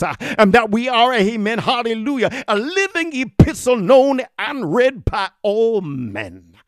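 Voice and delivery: fervent full-voiced preaching, building. Preacher exhorting his congregation to holiness, fervent preaching.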